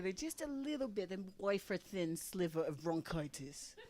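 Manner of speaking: mock French accent on "wafer thin sliver"; a lightly done French accent. Comic trying a French accent for the audience. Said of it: "That's my French accent".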